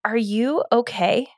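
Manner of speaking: husband softly asks his snapping wife, calm and caring; calm concern. Retold or imitated. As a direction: ask it softly, like a calm partner checking in. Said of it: "really calmly and he was like".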